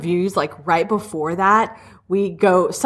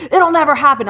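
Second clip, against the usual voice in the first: laughing dismissal; 5 semitones higher, 4 dB louder than usual. Retold or imitated. Brother answers about Rory.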